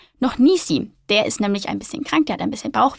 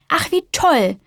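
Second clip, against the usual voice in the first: higher, bright burst of joy; delighted; 6 semitones higher, slower than usual. Acted. Little spider overjoyed about her sibling, higher cheerful exclaim. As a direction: cheer like a happy little child. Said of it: "freut sich die kleine Spinne".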